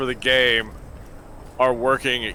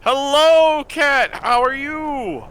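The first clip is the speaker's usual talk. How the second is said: cat-greeting voice; 12 semitones higher, 5 dB louder, much slower than usual. Real, not acted. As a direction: coo at the kitty, pitched way up.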